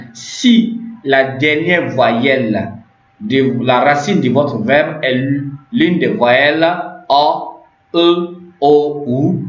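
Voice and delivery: slow, segmented restatement with pauses; careful restating. Shown as a demonstration. Teacher repeating a Turkish grammar rule for learners, slow and deliberate. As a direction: spell out the rule phrase by phrase.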